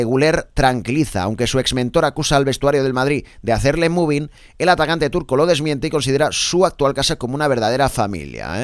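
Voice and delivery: punchy radio sports bulletin; lifted, emphatic press-review announcer; sports headline read. Acted. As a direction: project the headlines like a sports presenter.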